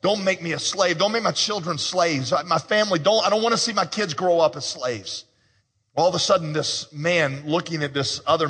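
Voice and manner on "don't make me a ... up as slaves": pleading debtor. Retold or imitated. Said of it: "begins to plead".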